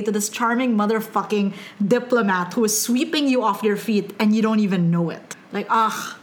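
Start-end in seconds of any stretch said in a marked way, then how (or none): 5.7-6.2 slow, breathy-free lovestruck swoon; swooning fan. Pretend. Fan swooning over Brennan, slow lovestruck sigh. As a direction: melt into his arms, slowly.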